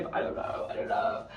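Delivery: hushed, voiceless whisper; breathy aside while packing quietly. Real, not acted. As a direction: whisper so you don't wake him. Awkwardly packing near sleeping man.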